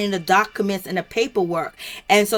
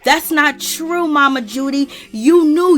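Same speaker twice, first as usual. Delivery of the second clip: higher, emphatic call-out; retold accusation; 4 semitones higher, 4 dB louder than usual. Yandy calling out Mama Judy, accusing. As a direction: imitate a firm contradiction, punching it higher.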